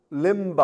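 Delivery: Limb with a spelled-out final B; with the B sounded. Shown as a demonstration. Teacher showing silent letters: Limb with its B spoken. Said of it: "or do you say limb".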